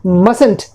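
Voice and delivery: mustn't with silent first t, MUSS-unt; model pronunciation. Shown as a demonstration. Teacher shows how mustn't is pronounced, first t dropped. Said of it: "अब इसके pronunciation देखिए".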